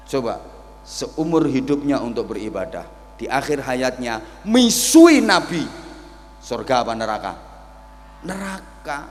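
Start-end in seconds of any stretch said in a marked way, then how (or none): none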